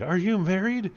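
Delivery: a hint of a grateful lady; scientist lady.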